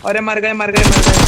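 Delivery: loud cry of dismay; dismayed shout. Real, not acted. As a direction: yell out as you go down. Dying in the game. (निराश होकर चिल्लाना)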